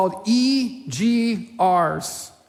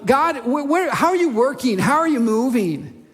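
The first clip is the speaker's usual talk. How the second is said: anxious questioning; 4 semitones higher than usual. Retold or imitated. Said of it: "Scarcity glasses go".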